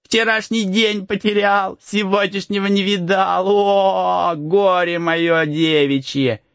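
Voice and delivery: high whiny mockery, slowing at the end; mocking Max. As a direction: mimic the crying boy to tease him. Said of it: "передразнивая Макса".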